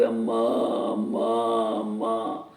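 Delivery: low bleating calf cries; lightly voiced calf bleat; calf calling. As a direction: call for mother like a little calf. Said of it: "ऐसे करने लगा".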